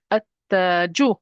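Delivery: slow at-taju, no L, doubled T; lam dropped. Shown as a demonstration. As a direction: skip the L and lean into the T of at-taju. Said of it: "here the lam is not pronounced".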